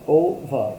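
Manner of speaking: "ওভার" broken into two parts, "ও" then "ভার"; teacher's split "ওভার", two distinct beats; two-syllable demo. Shown as a demonstration. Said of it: "দুটো যদি syllable থাকে".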